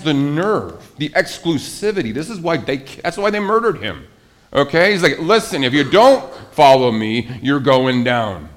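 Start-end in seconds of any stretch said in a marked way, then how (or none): 5.2-8.5 blunt warning. Retold or imitated. Voicing Jesus's blunt warning.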